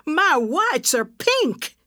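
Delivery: a slow, anguished exclamation; dismayed cry. Acted. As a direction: cry out at the ruined laundry, drawn out. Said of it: "she cried".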